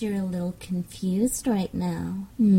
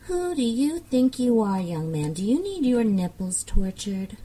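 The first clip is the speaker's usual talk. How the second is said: higher, mock-outraged question; mock indignant scolding; 3 semitones higher than usual. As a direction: play the shocked strict mistress.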